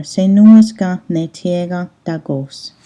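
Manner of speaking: "Senuas ga ne tega dagos" said slowly and evenly, slow; "Senuas ga ne tega dagos" धीरे और सपाट स्वर में; Ganyangeha sentence. Shown as a demonstration. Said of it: "So this question here".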